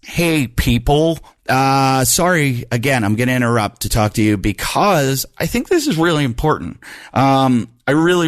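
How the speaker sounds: upbeat, earnest sponsor pitch; podcast ad read. Acted. Host pitches a supplement sponsor to listeners, earnest ad read. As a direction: sell the supplement like a friend's tip.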